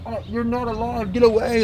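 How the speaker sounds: high, pleading mock protest; retold fear. Dreamer to dead dad, afraid. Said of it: "I was being afraid".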